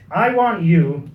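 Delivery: a badly faked American accent; terrible American accent. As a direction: put on a clumsy American accent for a quote. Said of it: "this is my terrible American accent".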